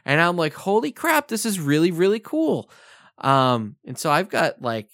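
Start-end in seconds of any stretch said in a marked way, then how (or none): 0.5-2.7 jumps high on holy crap, thrilled; excited kid. Retold or imitated. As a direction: gush like a kid tearing open presents. Kid thrilled opening birthday gifts.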